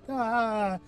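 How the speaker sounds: long, fading "ah"; mock passing out. Patient knocked out by gas, mock fading groan. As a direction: act out going under gas. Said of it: "I'll pass out".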